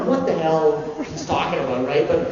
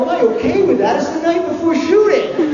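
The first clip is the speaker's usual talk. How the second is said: raised, higher mock outrage; retelling his own huffy reply to the producer; mock-indignant self; 10 semitones higher, 4 dB louder than usual. The actor mock-protesting to the producer, higher. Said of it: "I go".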